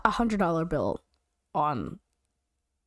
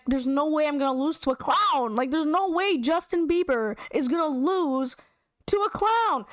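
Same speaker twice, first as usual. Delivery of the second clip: mock indignation; 4 semitones higher than usual. Retold indignation at losing to clown.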